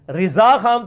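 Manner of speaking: "رضا" with an i in the first syllable, "rizaa"; corrected first vowel. Shown as a demonstration. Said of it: "تو نہیں کہتے".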